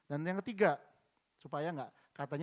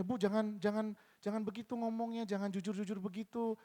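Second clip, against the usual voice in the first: higher, repetitive cautioning voice; advising coworkers; 5 semitones higher than usual. Retold or imitated. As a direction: lightly imitate coworkers urging her to stop.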